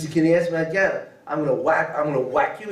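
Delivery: imitating a muscle-flexing bully, lightly; half-serious strong-arm warning; mock tough-guy threat. Teacher parodying God flexing muscles at angels, mock threat. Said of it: "He doesn't flex his muscles and says".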